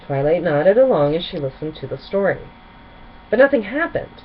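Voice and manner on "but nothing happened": higher, louder dramatic telling; milk the letdown for the listener. A narrator's reading. Cadance telling Twilight her failed search, dramatically. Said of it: "Cadance said dramatically".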